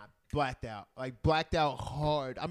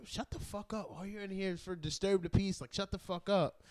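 higher-pitched mock telling-off; high, annoyed retold scolding; imitated fellow detainee; 6 semitones higher than usual. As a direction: imitate a fed-up detainee silencing a loudmouth. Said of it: "told me to shut the".

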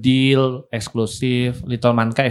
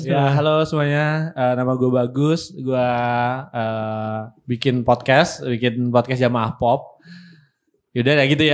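blocked nose. Real, not acted. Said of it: "kayak hidungnya ditutup".

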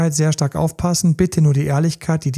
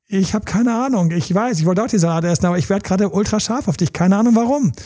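higher, cutesy feigned innocence; playing it sweet; 5 semitones higher than usual. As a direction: act sweetly clueless about the sudden desire. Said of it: "dann einfach total süß, das süß zu spielen". (gespielt süß und unschuldig)

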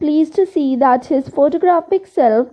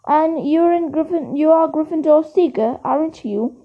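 in awe; 2 semitones higher than usual. Acted. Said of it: "said Colin in awe".

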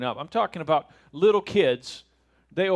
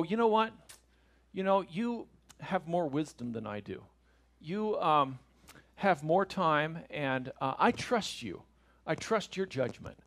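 soft, halting, deferential delivery; mock earnest; 5 dB quieter than usual. Child humbly deferring to a parent, mock earnest. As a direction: gently feign thoughtful trust, with pauses. Voicing an implausibly reasonable obedient child.

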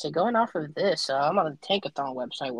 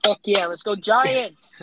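excited cheer; 4 semitones higher, 6 dB louder, much slower than usual. Real, not acted. Cheering for his team.

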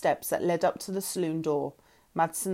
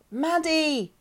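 much higher, urgent call; yell; 9 semitones higher than usual. A narrator's reading. Lauren calls Maddie as she slides in, urgent yell. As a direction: cry her name out in alarm. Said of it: "I yelled".

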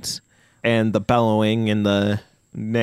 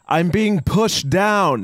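very slow, higher whimpering horse plea; pitiful horse; 7 semitones higher, much slower than usual. Acted. The horse telling the adventurer its plight, slow and pitiful. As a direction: plead slowly like a pushed-over horse.

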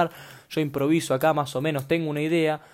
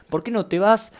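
mock insult; 7 semitones higher, 4 dB louder than usual. Shown as a demonstration. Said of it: "me armé eso en la cabeza de insulto".

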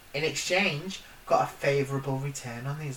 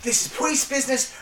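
put-on American accent; 9 semitones higher than usual. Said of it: "My American accent".

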